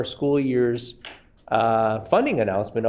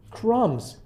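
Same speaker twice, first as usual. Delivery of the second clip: mock quote; 6 semitones higher than usual. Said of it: "And he said it again".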